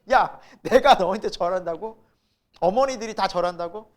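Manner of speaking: loud, indignant questioning; mild mock outrage as the father; angry father. Father to Joseph about bowing, acted anger. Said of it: "너무 화가 나는 거예요".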